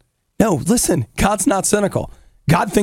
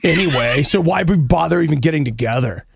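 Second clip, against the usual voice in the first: mock catastrophizing. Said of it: "jaded about stuff like".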